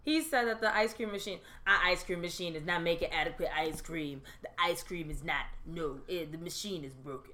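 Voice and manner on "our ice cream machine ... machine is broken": imitating the Sonic worker. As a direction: mimic the flat excuse of the worker, lightly. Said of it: "That is exactly how he sounded".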